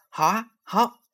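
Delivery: put-on high-pitched, gleeful little-girl reply; thrilled child's high voice; delighted child. A narrator's reading. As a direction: jump at the offer with joy. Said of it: "乐得搂住爸爸的脖子".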